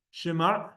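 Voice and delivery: "Shema" ending in a throaty ayin; "Shema" stressed on the end, with ayin; ayin demo. Shown as a demonstration. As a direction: close "Shema" with a catch in the throat. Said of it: "Heard the Ayin?".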